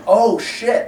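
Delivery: sudden alarm. Retold or imitated. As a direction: play the penny dropping. Acting out a sudden realisation.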